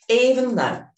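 slow, deliberate setup statement, every word placed; measured tapping affirmation; slow affirmation for repeating. Shown as a demonstration. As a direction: say it so they can echo you. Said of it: "start repeating after me".

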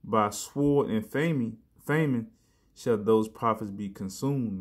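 "famine" repeated with weight, slow; emphasized verse. Shown as a demonstration. Preacher hammering the warning to the brothers, slow stress. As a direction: stress sword and famine slowly. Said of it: "I'm gonna emphasize that".

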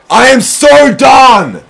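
real rage-quit shout; furious shout. Real, not acted. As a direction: scream it out in defeat. Losing at buzzer, yelling.

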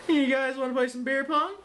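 fast, high party hype; excited. Acted. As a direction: pitch it like a party bro. Party invite.

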